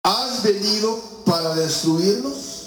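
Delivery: high, slow demon's question; lightly voiced demon, high and slow. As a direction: plead it slowly like a cornered spirit. Demon speaks to Jesus.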